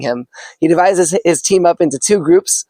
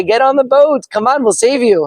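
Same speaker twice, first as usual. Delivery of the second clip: higher, urgent call to get aboard; rescuer calling; 8 semitones higher than usual. Acted. Rescue team urges the stranded man aboard, calling out. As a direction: hurry him onto the boat.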